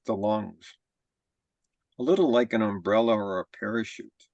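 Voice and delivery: measured body-scan guidance with long pauses; guided meditation. Real, not acted. Teacher leading a group body scan, calm guided-meditation delivery. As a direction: guide them calmly, phrase by phrase, leaving room to breathe.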